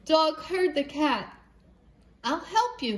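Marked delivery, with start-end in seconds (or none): 2.2-3.0 higher yappy dog voice; yapping dog. Acted. Dog yapping to the cat, higher and eager. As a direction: yap it like an eager little dog. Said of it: "he yapped".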